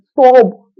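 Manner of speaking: high loud panicked stop; panicked shriek. Retold or imitated. Woman losing composure in sparring, shrieking high. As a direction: shriek it as the blow lands. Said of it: "It was like".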